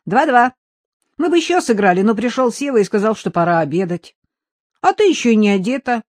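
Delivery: put-on high, eager little boy; young boy voice. Son tells mother about ping-pong, in a high boyish voice. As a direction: chirp it like an excited kid.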